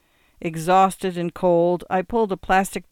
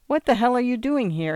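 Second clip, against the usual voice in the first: higher-pitched, disbelieving cop's question; incredulous demand; 7 semitones higher, 3 dB louder than usual. A narrator's reading. Cop finds man on tracks.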